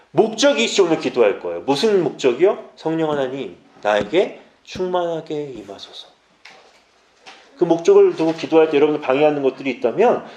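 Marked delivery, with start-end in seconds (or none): 2.7-6.1 soft, slow demonstrated prayer. Shown as a demonstration. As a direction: pray it quietly and unhurriedly. 기도 문구를 시연. (나직하고 느린 기도조)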